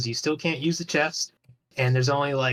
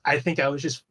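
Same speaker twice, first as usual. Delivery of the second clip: talking through hiccups; words broken by a hiccup; faster than usual. Real, not acted. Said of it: "I got the hiccups right now".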